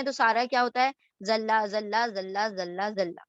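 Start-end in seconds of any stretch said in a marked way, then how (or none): 1.3-3.2 ذلہ said the same each time, no Arabic distinction; Urdu-style reading. Shown as a demonstration. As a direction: repeat ذلہ in the Urdu way, every letter alike. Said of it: "Urdu میں ہم اس طرح سے پڑھتے ہیں".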